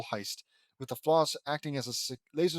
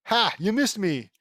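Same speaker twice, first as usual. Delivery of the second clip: loud, higher crowing taunt; triumphant taunt; 5 semitones higher, 6 dB louder than usual. Acted. Lynn Senior taunting in a dart fight, triumphant. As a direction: crow it at whoever missed.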